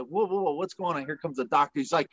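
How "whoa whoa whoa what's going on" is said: mock-startled whoa whoa whoa; alarmed whoa. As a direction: pull up short, startled by the scalpels. Alarmed at nurses prepping surgery.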